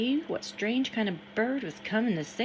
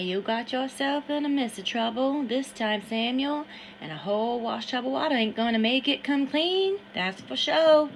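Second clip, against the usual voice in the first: a lightly voiced, higher scolding washerwoman; scolding Lily; 5 semitones higher, 5 dB louder than usual. Lily scolds Samuel about his trouble, lightly voiced and higher. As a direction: tease him about his trouble, a little raised.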